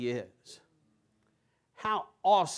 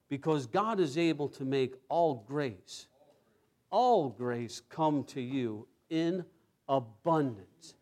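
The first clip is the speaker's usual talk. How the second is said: calm restatement; slower than usual. Acted. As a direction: settle the promise gently. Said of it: "calm repeat of scripture".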